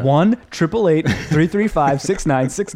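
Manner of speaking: playfully joining in the church's pledge pitch; mock pledge drive host. Joking about joining the church fundraiser, mock pledge announcer. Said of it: "I was like".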